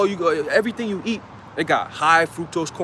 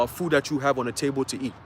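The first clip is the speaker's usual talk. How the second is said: ordinary delivery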